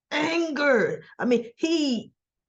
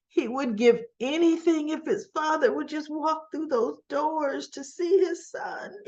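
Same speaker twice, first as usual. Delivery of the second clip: getting teary; 5 semitones higher than usual. Real, not acted. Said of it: "I'm getting teary-eyed".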